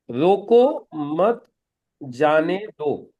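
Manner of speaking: रोको मत जाने दो very slowly, word by word; word-by-word demo. Shown as a demonstration. Trainer sets the puzzle sentence for trainees, slow and spaced out. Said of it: "ये एक sentence है".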